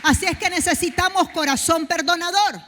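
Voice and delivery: loud, rising sermon cry; full-force preaching. Acted. Preacher to the congregation, full-force preaching. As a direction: build the sermon up to a shout.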